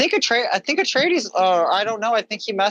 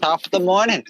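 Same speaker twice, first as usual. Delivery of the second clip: put-on stage Irish accent. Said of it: "there's the Irish".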